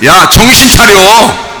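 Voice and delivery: slow, drawn-out scolding call; acted rebuke. Preacher answering the complaining believer, slow scolding call. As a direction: stretch it out as a rousing rebuke.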